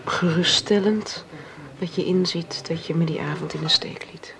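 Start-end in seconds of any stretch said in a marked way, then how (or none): 1.8-4.3 hushed, breathy reproach; whisper. Acted. Marion whispering her hurt to Jaap.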